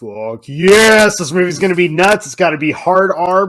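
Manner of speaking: hyped-up retold fan excitement; gushing like a fan who just heard the news; excited. Excited retelling of hype.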